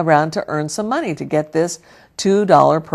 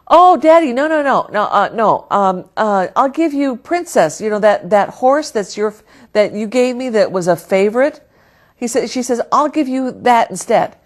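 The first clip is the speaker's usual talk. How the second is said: put-on high, loud, flustered child voice; a child scrambling to keep her treasure; anxious little girl; 5 semitones higher, 3 dB louder than usual. Jenny pleading with her daddy to take the horse instead, high flustered child voice.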